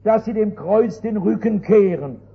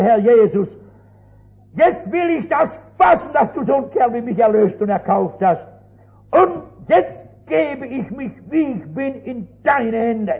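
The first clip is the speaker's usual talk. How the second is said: a kneeling man surrendering to Jesus; fervent prayer; 2 semitones higher than usual. Retold or imitated. Young man's prayer of surrender. (inbrünstiges Gebet, höher und lauter)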